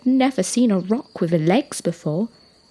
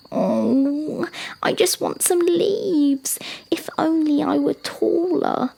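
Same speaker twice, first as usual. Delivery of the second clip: high-pitched little giraffe voice; wishful young giraffe; 8 semitones higher than usual. Acted. Young giraffe wishing he could reach leaves, high and longing. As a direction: wish aloud in a high child's voice.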